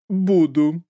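put-on high, slow theatrical old nanny; high, slow proud invalid nanny; dramatic sick nanny. A narrator's reading. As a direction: announce illness like a triumph. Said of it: "согласилась Маргарита Егоровна".

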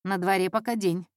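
understated dry correction; dry retort. Acted. Detective correcting the intern caller, drily. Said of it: "сухо отрезал Марко".

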